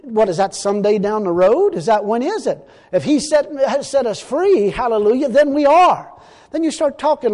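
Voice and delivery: preaching, building to a loud, high finish; fervent preaching. Real, not acted. Preacher arguing that freedom is already theirs, fervent. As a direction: drive the point home to the congregation.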